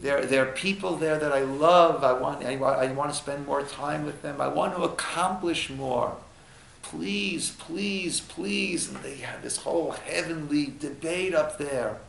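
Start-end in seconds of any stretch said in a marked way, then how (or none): 0.0-8.9 soft, understated plea for more time; hushed begging, lightly acted; begging and pleading. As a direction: plead quietly with the heavenly court. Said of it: "the person begs and pleads".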